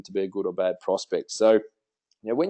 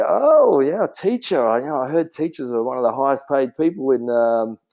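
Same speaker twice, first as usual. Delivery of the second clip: enthusiastic praise. Shown as a demonstration. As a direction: sell it with big delight. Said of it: "you'd say".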